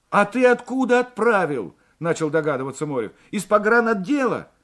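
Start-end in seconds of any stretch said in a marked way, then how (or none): 0.1-1.7 loud, high, pressing question; urgent questioning. A narrator's reading. Morev begins to guess where the letter was posted, urgent. 3.3-4.5 loud, high, agitated question; urgent guess. A narrator's reading. Morev presses the driver about the letter, agitated.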